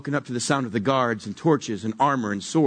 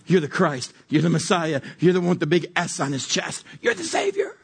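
rising proclamation; 4 semitones higher than usual. Retold or imitated. Peter proclaiming Jesus the Messiah.

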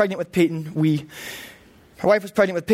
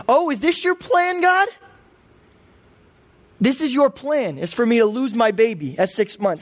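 anguished question to God; 4 semitones higher than usual. Retold or imitated.

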